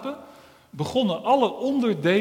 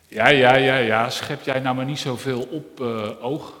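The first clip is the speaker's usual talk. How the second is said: ear character; 7 dB louder than usual. Acted. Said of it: "zei het oor".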